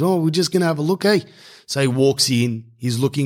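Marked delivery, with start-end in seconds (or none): 0.0-1.2 put-on higher, lightly done Islander accent. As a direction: greet him with a light Islander lilt. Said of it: "He goes".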